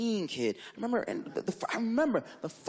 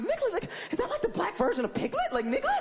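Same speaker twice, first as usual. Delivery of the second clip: much higher, wondering aloud; baffled musing. Retold or imitated. Babysitter wondering about the word, high and baffled. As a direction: puzzle it over in disbelief. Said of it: "I'm like".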